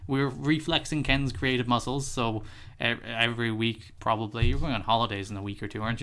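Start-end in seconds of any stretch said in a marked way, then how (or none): 0.1-2.1 radio host intro. Pretend. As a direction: open the show like a radio host. Mock podcast intro.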